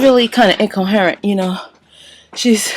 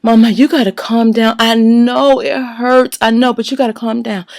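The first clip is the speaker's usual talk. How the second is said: soothing; 3 semitones higher than usual. Retold or imitated. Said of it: "I'm like".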